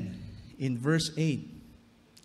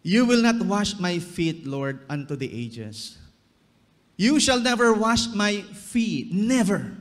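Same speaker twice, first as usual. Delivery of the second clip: proud refusal; 3 semitones higher, 5 dB louder than usual. Acted. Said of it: "Is Peter resisting Jesus".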